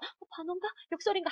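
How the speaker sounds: high-pitched mock puzzlement; dithering student. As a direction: imitate a student stuck between two answers. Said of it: "하면서 지금 삼 분 지났어".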